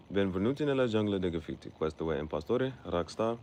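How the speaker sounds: Italian show opener, announced; announcer-style Italian intro. Shown as a demonstration. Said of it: "fluent Italian".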